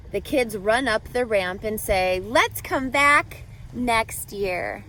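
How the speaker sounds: storybook read-aloud with lively rhythm; reading to children. A narrator's reading. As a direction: read it like a picture book to a class. Reading picture book to class.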